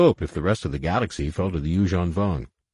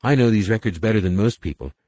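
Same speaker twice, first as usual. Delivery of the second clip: put-on high, loud eager girl; excited girl; 5 semitones higher, 4 dB louder than usual. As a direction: burst with eagerness.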